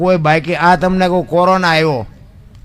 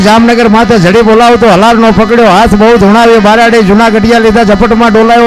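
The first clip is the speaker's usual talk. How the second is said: chanted folk verse building higher and louder; rhythmic poem recitation; 6 semitones higher, 7 dB louder than usual. Acted. Storyteller reciting a rabari's earthquake poem to the crowd, building chant. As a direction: drive the rhyming lines like a bard, rising as the quake spreads.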